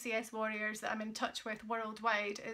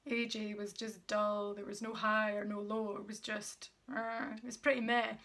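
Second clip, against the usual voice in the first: monotone. Shown as a demonstration. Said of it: "no emotion in my voice".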